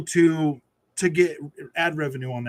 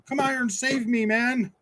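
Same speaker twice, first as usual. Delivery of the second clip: higher mocking imitation of a fawning host; light higher mock voice begging for rescue; Jeff Keighley; 6 semitones higher than usual. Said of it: "He's like".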